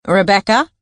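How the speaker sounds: lightly high, nasal questioning man. Acted. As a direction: pinch it through the nose, high. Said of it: "came Bert Spiker's high nasal voice".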